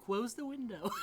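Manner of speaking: high, shouted demand. Acted. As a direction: shout it across the room. Chewy repeats the demand.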